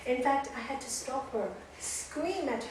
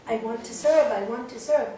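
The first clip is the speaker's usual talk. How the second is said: stubborn insistence; 8 dB louder than usual. Retold or imitated. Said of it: "no, stubborn".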